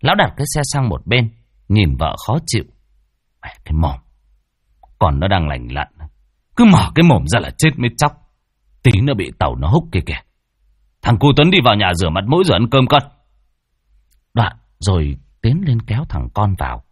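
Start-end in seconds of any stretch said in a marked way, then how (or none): 3.4-13.0 a husband losing his temper at his wife; irritated husband. Acted. Thông snapping at his wife to stop nagging, fast and loud. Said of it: "nổi máu điên".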